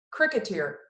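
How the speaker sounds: a touch of scorn on Cricketer; scornful. Acted. Mama scorning the cricket, a touch of disdain. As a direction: sniff out Cricketer with light disdain. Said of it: "she said scornfully".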